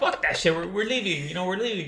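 amused, cocky dad; laughing defiance. Retold or imitated. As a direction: brush it off laughing. Dad laughing while fleeing.

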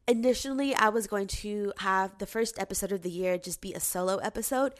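congested, stuffy voice. Real, not acted. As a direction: talk through a congested nose. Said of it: "I'm a little congested right now".

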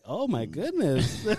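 slow, drawn-out shocked oh my goodness; the other aide reacting, slow and scandalized; mock shocked gasp. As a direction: act scandalized, stretching it out. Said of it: "the lady was like".

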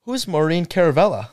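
high-pitched puzzled mom questioning; imitated mom. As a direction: voice mom's baffled text up high. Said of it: "I get a text from my mom".

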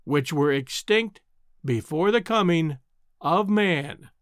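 repeating the phrase slowly and deliberately, opening slow; slow, pointed repeat. Acted. Lecturer repeats his claim to the heckler, slow and pointed. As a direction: lay each word down deliberately. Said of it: "raising his voice, repeated slowly the words".

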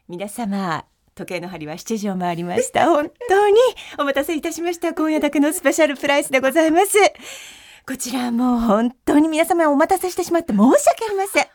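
bright, dramatic sales pitch; TV shopping host. Pretend. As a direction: present the product like a late-night shopping host. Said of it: "じゃあいいですか？".

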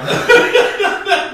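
high laughing whoop; cracking up loudly; loud burst of laughter. Real, not acted.

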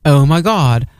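lightly voiced Valley Girl, slow and airy; a hint of Valley Girl gushing. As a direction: play a mild Valley Girl. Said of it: "in a Valley Girl voice".

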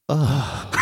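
a drawn-out, disgusted group "ugh"; mock crowd groan of disgust; imitated audience groan. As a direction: groan like a crowd that can't stand him. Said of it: "everybody in the audience go like this".

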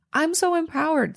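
high-pitched mock confidence on so; mock empowered. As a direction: sing out I'm so empowered, hammed-up.

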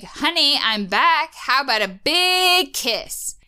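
slow teasing sweetheart call; flirty Jake. Retold or imitated. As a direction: croon it like a lover. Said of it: "we hear Jake".

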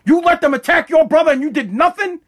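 loud, high mock yelling father; father scolding his son, imitating the yell; angry dad. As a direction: shout down at the son. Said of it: "He's like".

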